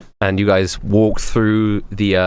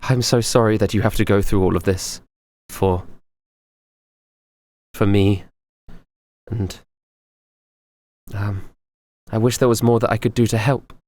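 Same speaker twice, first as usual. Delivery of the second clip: sympathetic. Acted. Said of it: "she has this sympathy in her eyes".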